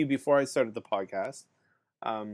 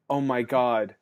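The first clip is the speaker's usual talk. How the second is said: louder, half-joking despair; exasperated inner rant; 2 semitones higher, 5 dB louder than usual. Retold or imitated. Bored teacher with nothing to do, louder mock panic. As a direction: rant like a bored teacher going stir-crazy. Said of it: "You're kind of like".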